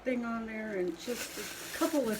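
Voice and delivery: imitating encouragers. Potter quoting people who urge her to practice, imitated encouragement. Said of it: "they're like".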